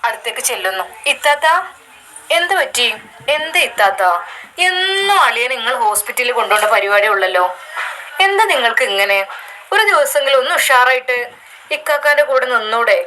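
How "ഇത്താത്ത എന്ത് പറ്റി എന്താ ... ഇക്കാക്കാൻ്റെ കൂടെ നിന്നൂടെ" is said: put-on a younger sister nagging her older sister; young sister's voice. Younger sister scolds sick sister.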